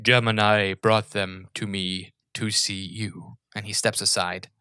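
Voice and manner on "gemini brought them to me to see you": slow, formal steward's announcement; lightly voiced steward. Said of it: "the steward stands and he goes".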